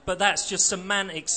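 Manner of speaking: protest, a little pushed; crying out. Acted. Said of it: "the militant cried".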